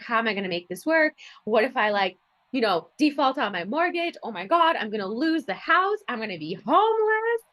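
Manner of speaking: building panic that climbs high at the end; mock freak-out. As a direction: replay your past self freaking out, rising to a high wail. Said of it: "freaking out".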